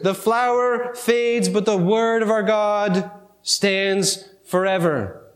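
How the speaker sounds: very slow, weighty scripture reading; solemn scripture reading. Acted. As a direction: draw out each phrase of the verse, pausing between.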